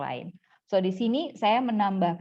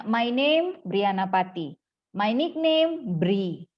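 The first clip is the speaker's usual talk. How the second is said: slow wrong-grammar demo; 2 semitones higher, 3 dB louder, slower than usual. Shown as a demonstration. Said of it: "kata-kata yang kecil-kecil ini tidak ada".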